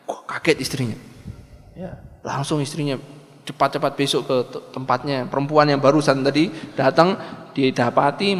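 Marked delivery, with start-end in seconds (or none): none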